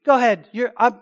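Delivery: a loud, hammed-up version of a beaten-down prophet giving in; loud mock surrender, as if he'd given in; caving prophet. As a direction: play Micaiah as worn out and pleading, pushed loud. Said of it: "Is that what he's saying?".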